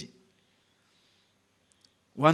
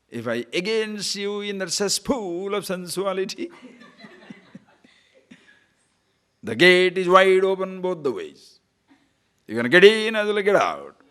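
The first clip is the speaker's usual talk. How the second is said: angry Swami; 3 semitones higher, 6 dB louder than usual. Retold or imitated. Swami scolding brahmacharis caught in the park, angry booming rebuke. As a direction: thunder out a stern warning, stretching the words. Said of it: "so angry they become".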